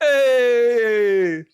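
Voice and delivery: loud, high New Jersey "Hey!"; New York shout. Shown as a demonstration. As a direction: bark it like a Jersey guy. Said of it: "go for a Jersey type".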